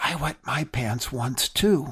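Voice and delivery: hushed, soft, slow, unhurried half-whisper. Retelling a story of a girl answering the boy: imitating a half-whisper. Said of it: "And she whispers back".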